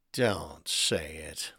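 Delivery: slow, soft raspy whisper; hoarse whisper. A narrator's reading. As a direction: rasp it, dreading the news. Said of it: "he ordered in a hoarse whisper".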